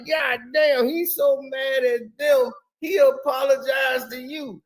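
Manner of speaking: stunned, mock yell that he apologized; incredulous shout. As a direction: shout it in disbelief. Incredulous retelling of Jack.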